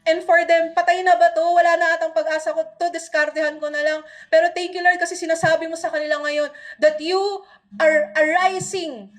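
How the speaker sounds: earnest spoken prayer, rising in intensity toward the middle; fervent prayer. Acted. Pastor praying over the church, fervent prayer. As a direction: pray over the congregation with growing conviction.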